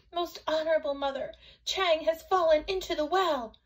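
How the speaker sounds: put-on high-pitched child's report; little boy reporting. A narrator's reading. Little boy telling his mother about Chang, high-pitched report. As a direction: tell mother the news, high and hurried. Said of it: "mother and said".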